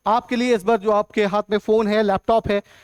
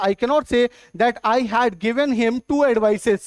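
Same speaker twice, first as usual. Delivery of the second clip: slow wrong example; much slower than usual. Shown as a demonstration. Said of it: "तो ये गलत होगा".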